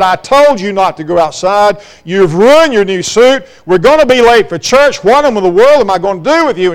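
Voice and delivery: mildly acted motherly scolding; upset, fussing mother. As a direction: fuss at a muddy child, a touch exasperated. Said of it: "She was so upset ... fumed and fussed".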